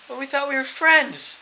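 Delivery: high, loud, drawn-out protest; mock-hurt plea. Friends answering a gun threat, mock-hurt plea. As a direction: plead slowly as if betrayed.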